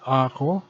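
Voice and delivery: ako drawn out slowly, every syllable given its length. Shown as a demonstration. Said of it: "If pronounced slow".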